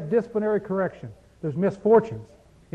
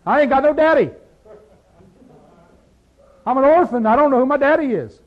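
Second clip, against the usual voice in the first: mock orphan; 4 semitones higher, 5 dB louder, faster than usual. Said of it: "you're saying".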